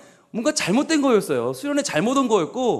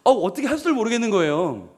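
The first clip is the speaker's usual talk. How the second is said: panicked inner voice; 6 semitones higher than usual. Retold or imitated. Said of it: "그러니까".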